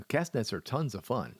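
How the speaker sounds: dry sarcastic praise. Acted. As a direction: say it with mock enthusiasm. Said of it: "that was sarcastically spoken".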